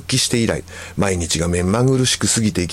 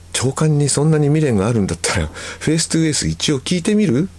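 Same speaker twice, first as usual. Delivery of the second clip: higher-pitched casual suggestion; friend's coaxing offer; 6 semitones higher than usual. Retold or imitated. Friend recommending a band to the writer, coaxing. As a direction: offer it lightly with rising questions.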